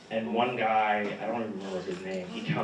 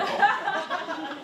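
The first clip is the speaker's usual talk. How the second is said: stunned oh; 6 dB louder than usual. Retold or imitated. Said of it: "walked away like".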